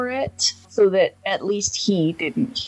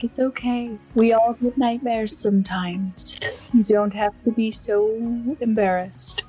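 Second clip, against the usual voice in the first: comforting. Acted. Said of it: "lean against him and be like".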